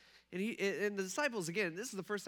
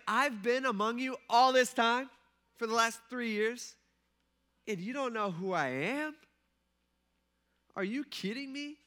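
acted exasperation, pitched up and louder; frustrated disbelief; 5 semitones higher, 6 dB louder than usual. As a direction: play an exasperated teacher who can't believe it. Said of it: "I wonder if Jesus felt like that".

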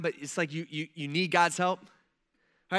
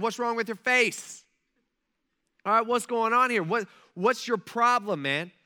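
loud, higher-pitched mock challenge; confronting king; 4 semitones higher, 5 dB louder than usual. King challenging glum Nehemiah, loud and confrontational. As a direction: demand an answer, voice pushed up. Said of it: "this is not a comforting thing".

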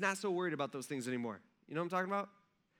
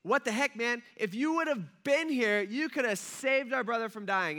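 upset reproach; 4 semitones higher than usual. Retold or imitated. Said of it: "They're like".

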